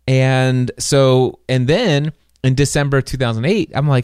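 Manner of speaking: normal talking voice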